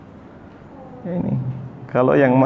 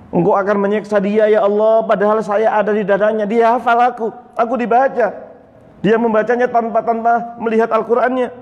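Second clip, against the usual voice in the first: higher, urgent plea to God; the Quran's chapter pleading for its reciter, higher; pleading sura; 4 semitones higher than usual. Acted. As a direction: beg God as the sura, voice climbing.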